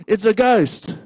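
high, loud scared cry; frightened cry. Shown as a demonstration. Pastor acting the disciples' fear, scared cry. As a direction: call it out in fright. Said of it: "They would say".

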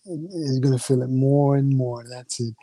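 slow, coaxing hypnosis patter; hypnotist voice. Acted. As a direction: lull her in like a stage hypnotist. Hypnotist keeps building the trance.

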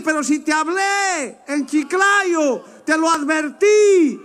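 voice of the Lord. Acted. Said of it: "Y el Señor te va a decir".

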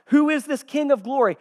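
high, loud challenge; crying out. Acted. Gatekeepers answering the arriving herald, crying out. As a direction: cry the question out from the gates. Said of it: "But they cry out".

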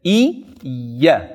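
"I, ja" split in two, rising then falling; doubled letter. Shown as a demonstration. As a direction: separate "I" from "ja" to show the double sound. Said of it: "een nadruk die je legt".

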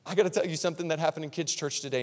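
put-on a touch of a tearful kid confessing to mom; upset little girl. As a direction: imitate a worried little girl. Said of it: "she was almost to tears".

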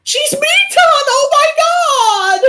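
shrieked high and loud, drawn out slowly; a hammed-up anime gasp of recognition; mock dramatic shriek. Retelling the show's big reveal, mock dramatic shriek. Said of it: "And then he's just like".

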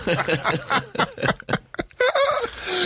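high wheezing laugh. Real, not acted. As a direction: laugh at your own squeak. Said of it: "it's much funnier".

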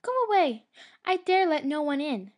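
high, loud fearful cry; frightened shout. A narrator's reading. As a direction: shout her away in fright. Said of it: "Snowdrop looked out and said".

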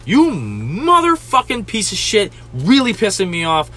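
lightly put-on irate comedian, key words dragged out; Joey Diaz impression. Chewing out a difficult customer, Joey Diaz impression. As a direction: rant with long, leaned-on stressed words. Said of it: "I'm doing an excellent Joey Diaz impression right now".

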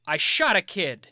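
movie line read. Shown as a demonstration. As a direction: deliver it like a grim action hero. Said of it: "I'm just gonna test a line on you".

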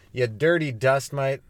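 drawn-out mocking insult; slow insult. Shown as a demonstration. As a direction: savor every word slowly. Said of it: "insult demo".

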